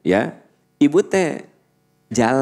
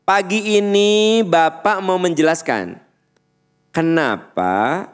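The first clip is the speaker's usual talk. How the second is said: projected teacher voice; 6 semitones higher than usual. Shown as a demonstration. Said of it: "saya kan kudu keras kan".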